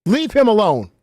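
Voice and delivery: half-joking scolding; mock stern warning. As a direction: wag a finger and tell them off, slowly. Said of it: "I'm supposed to point at you like this".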